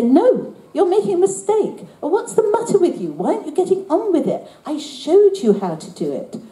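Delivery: high, sharp exasperated father; cross father. Retold or imitated. Father scolding his daughter over homework, exasperated and high. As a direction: scold the child over her maths homework. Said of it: "And he would say".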